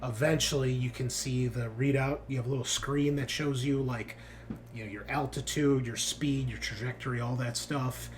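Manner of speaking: measured tabletop narration with dramatic pauses; game master's scene setting. Acted. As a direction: unfold the drop for the players, phrase by phrase.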